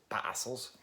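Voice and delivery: Parcels with the R dropped, in a shaky attempt at Australian; bad Australian accent. Shown as a demonstration. Vlogger guessing how the band from Australia says it, bad Australian accent. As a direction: softly try an Australian "Parcels". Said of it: "that bad Australian accent".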